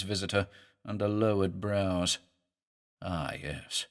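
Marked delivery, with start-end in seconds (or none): 3.0-3.9 low, soft and precise, lingering on the s; hissing sibilance. A narrator's reading. The Italian answers his visitor with soft, precise hissing. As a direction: let the s hiss softly and exactly. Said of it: "with a precise, hissing sibilance".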